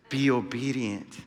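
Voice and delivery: low, soft, slow echo of the message; hushed repeat. Retold or imitated. Preacher repeating the Spirit's message to the church, hushed and slow. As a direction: let the words land gently and slowly.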